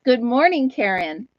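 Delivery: put-on Italian accent. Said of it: "heavy Italian accent".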